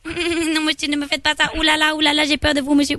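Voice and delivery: hammed-up frightened little student; mock schoolgirl. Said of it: "je suis une petite étudiante chinoise".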